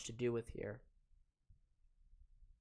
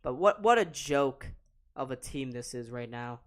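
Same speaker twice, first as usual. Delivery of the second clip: normal talking voice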